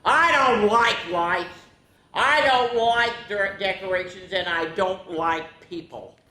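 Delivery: sulky sapling, sinking at the end; a hint of a grumpy sapling; grumbling. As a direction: grumble like a grumpy little tree. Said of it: "one sapling grumbled".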